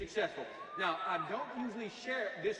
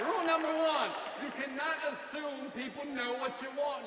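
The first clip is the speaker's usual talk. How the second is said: slow, loud and higher, hammering each word; emphatic shout; 5 semitones higher, 3 dB louder than usual. Real, not acted. Speaker to audience, a slow emphatic shout. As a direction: preach it out to the back row. Speaker drives home rule one.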